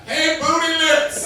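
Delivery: high shouted taunt; loud mocking nickname call; mock kid yell. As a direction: call it out like a rude kid across the lot. Kid yelling nickname at gas station.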